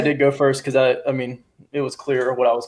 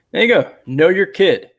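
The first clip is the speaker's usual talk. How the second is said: raised, higher voice, lecturing emphatically; mock yelling; 4 semitones higher than usual. Real, not acted. Host telling parents to know their kids, mildly yelling. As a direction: lay down the rule to parents, half yelling. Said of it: "I'm yelling at people now".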